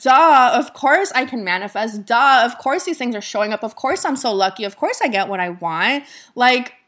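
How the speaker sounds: emphatic, cocky duh-obviously delivery; playful cockiness. Acted. Coach modelling how followers should be about manifesting, playful cockiness. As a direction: act smugly sure of your own luck. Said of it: "call it cockiness".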